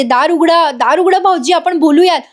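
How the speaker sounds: retold shouting. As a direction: imitate a sister-in-law calling through a door. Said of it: "Sayali ओरडत असते". (हलक्या नाटकी आवाजात ओरडून हाक मारणे)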